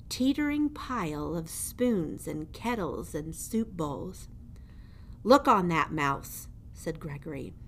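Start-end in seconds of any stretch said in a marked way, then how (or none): 5.2-6.5 louder, looming jailer voice taunting a mouse; menacing old jailer. Acted. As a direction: lean over the prisoner and gloat. Gregory shows the pile.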